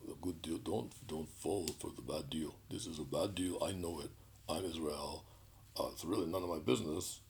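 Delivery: a touch of blustering prime minister, sarcastically imitated; mock-bravado speech, only slightly put on; lightly mimicked bravado. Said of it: "I mimic his speech. You know, he's this bravado that he has".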